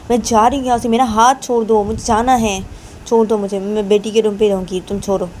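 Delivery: upset refusal. Acted. Wife refuses, wants to leave.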